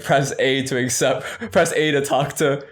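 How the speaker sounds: a light hint of a video game menu voice; game prompt voice. Mock game prompt as the stranger approaches, lightly voiced. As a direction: read it like an on-screen button prompt. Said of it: "it really was like a video game".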